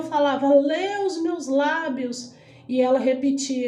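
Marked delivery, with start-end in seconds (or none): 0.5-2.3 higher, slow, stretched-out plea; retold plea. Voiceless dreamer begging the doctor to lip-read, retold plea. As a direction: spell it out slowly on a raised pitch.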